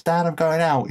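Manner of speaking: retold shout. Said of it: "Maria shouts".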